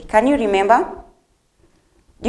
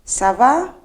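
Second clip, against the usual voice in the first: lively question; 5 semitones higher, 5 dB louder than usual. Shown as a demonstration. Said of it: "the response to comment ça va".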